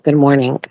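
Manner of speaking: "Good morning" with a K tacked onto the end; hard K ending. Shown as a demonstration. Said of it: "With a k-, special k at the end".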